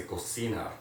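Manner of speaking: "cocinar" with a hard k for the c; Spanish k sound. Shown as a demonstration. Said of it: "You hear that?".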